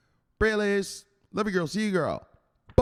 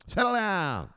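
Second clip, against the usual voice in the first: stern enforcer; 7 semitones higher, slower than usual. Acted. Enforcer scolding a jittery crypto investor, high and forceful. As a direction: lay down the law to a nervous investor.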